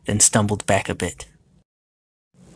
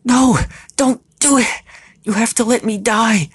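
very high, desperate shout; 13 semitones higher, 5 dB louder than usual. A narrator's reading. Lilith begs Sam to let her die, shouting. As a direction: plead at a high-pitched shout. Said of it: "Lilith shouted".

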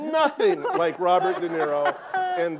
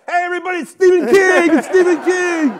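shout; 13 semitones higher, 14 dB louder than usual. Retold or imitated. Stranger yelling to the crowd about the famous man. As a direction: announce it to the whole crowd.

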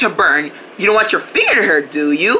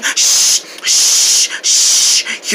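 shushing; much slower than usual. Real, not acted. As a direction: hush them gently. Comforting crying friend.

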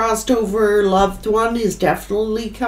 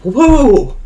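amazed whoa; 7 dB louder than usual. Real, not acted. Emotional reading, reacting to spirit.

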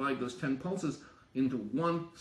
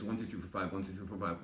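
counting beats; 6 semitones lower, 7 dB quieter, faster than usual. Shown as a demonstration. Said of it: "what I'm generating is".

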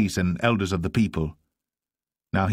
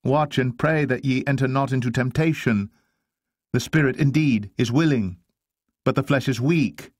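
raised, pressing voice of reproach; earnest rebuke; 6 semitones higher, 3 dB louder than usual. Acted. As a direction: reprove the sleepers, pitch held high. Jesus rebukes sleeping disciples.

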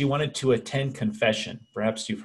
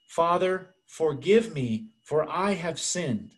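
slow, deliberate imitation of a Spanish accent; Spanish accent, repeated; 4 semitones higher, slower than usual. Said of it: "So she said again".

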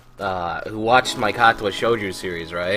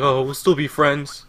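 sing-song mock, rising much higher on the repeat; mocking sweet voice; 7 semitones higher than usual. Mocking the fan who says they'll stay friends, sing-song. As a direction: parody his fake niceness. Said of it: "And you're like".

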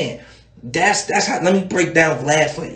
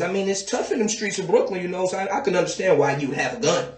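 soothing interviewer; 6 dB quieter than usual. Retold or imitated. Vlad cleaning it up.

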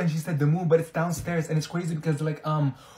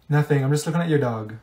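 ordinary delivery

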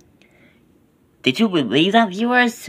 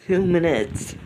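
laughing; 2 semitones higher, 5 dB quieter than usual. Real, not acted. Laughs while repeating.

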